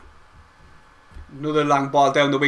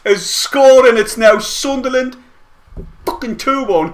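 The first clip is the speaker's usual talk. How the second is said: yelling the scorer's name, much higher and louder; too excited; 6 semitones higher, 7 dB louder, slower than usual. Real, not acted. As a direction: let the joy burst out, stretching the name. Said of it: "Too excited".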